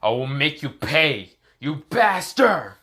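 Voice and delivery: rising to a loud, stretched curse; Boruto's angry vow. Acted. Boruto vowing revenge on Frio, building angry shout. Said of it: "This is where Boruto is like".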